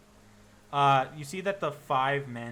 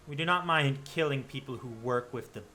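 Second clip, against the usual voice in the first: cold hunter; 3 dB louder than usual. Acted. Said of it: "it goes".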